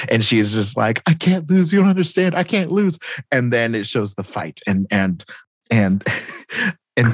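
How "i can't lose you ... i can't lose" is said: high-pitched mock exasperation; frantic protest. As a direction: imitate her insisting, pitched right up. Retold character's frantic protest.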